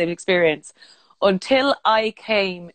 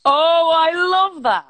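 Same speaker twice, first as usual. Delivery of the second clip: high, slow, drawn-out delight; 9 semitones higher, 3 dB louder, much slower than usual. Real, not acted. Delighted by the cocktail-bar name, a high drawn-out gush. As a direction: swoon over the pun with real delight.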